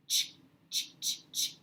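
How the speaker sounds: "Ch, ch" as a repeated breathy ch with no vowel; ch sound demo. Shown as a demonstration. Teacher modelling the C H sound for students, unvoiced. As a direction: puff out "ch, ch, ch, ch" unvoiced. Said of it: "So C H makes what sound again?".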